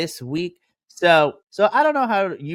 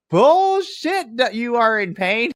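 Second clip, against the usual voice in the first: slow, scoffing, a bit louder; indignant disbelief; 6 semitones higher, 4 dB louder, slower than usual. Retold or imitated. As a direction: call the bluff, drawn out. Fan calling out fake injury.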